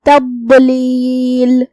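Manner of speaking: تضلیل with a heavy ض; heavy full-mouthed daad. Shown as a demonstration. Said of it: "بھاری آواز میں منہ پھلا کے".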